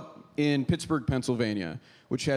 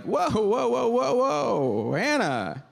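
drawn-out, high mock cheer; imitated group approval, stretched vowels; everyone cheering; 5 semitones higher, slower than usual. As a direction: coo admiringly like an impressed crowd. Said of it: "everyone would be like".

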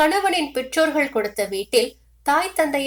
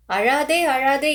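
crying while consoling; 3 semitones higher, slower than usual. Acted. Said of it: "சொல்லிக்கொண்டே தான் அழுதாள்".

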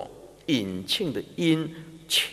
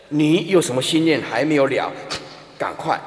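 speaking to the dying; 4 dB louder than usual. Shown as a demonstration. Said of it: "对死人要这样讲的".

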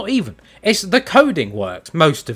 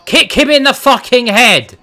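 yelling; 3 semitones higher, 5 dB louder than usual. Real, not acted. Yelling at the game.

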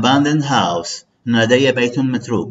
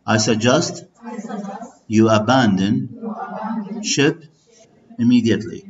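slow read-aloud model. Shown as a demonstration. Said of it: "So let's read together".

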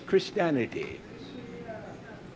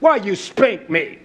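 put-on child asking daddy; 3 semitones higher, slower than usual. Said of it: "like a child asking daddy".

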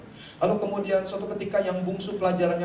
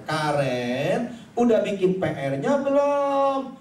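stretched, raised-voice fatherly call; louder repeated asking; 2 semitones higher, 4 dB louder, much slower than usual. Acted. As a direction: call it out slowly to an unresponsive child. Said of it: "lebih kencengin lagi suaranya".

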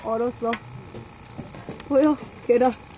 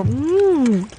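ordinary delivery

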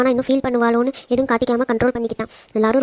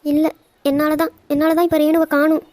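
higher, crying insistence on your own fault; guilty, weeping, raised pitch; tearful self-blame; 4 semitones higher than usual. Acted. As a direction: sob the blame onto yourself. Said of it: "நீ அழாத please".

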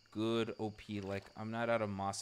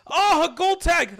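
slow, high, loud cry of joy; thrilled shout; 17 dB louder, slower than usual. Real, not acted. Streamer finally landing the gold tag, thrilled shout. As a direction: burst out with delight.

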